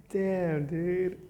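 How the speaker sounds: high, loud amazed exclamation. Real, not acted. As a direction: blown away by it.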